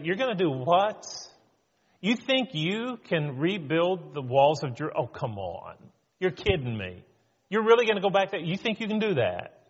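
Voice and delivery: incredulous scoffing with swinging pitch; mocking. Critics jeering at Nehemiah's wall builders, mocking. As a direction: scoff in disbelief at their plan. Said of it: "Nehemiah faces mockery".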